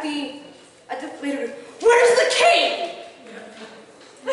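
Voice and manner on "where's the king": high, loud, slow demand through laughter; laughing mock demand. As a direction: demand the king, half laughing. Queen demanding in retold story.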